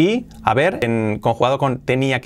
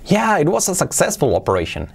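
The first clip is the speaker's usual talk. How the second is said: upbeat, higher delivery of good news; cheerful teacher model line; pleased good-news read; 5 semitones higher than usual. Shown as a demonstration. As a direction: sound glad it went well. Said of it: "Esto se supone que es una buena noticia".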